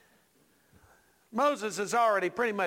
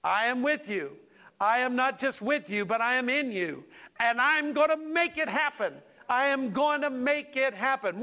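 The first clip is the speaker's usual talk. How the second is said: a hint of God's emphatic promise, building higher; lightly voiced God; 4 semitones higher than usual. Preacher relaying God's promise to the church, emphatic. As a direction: build the assurance line by line. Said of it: "But God reminds me".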